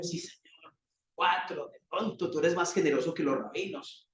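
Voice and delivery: near-whispered, tentative "Sí, Señor"; hushed timid reply. Retold or imitated. Pedro timidly offering four, hushed. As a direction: Pedro bargaining under his breath.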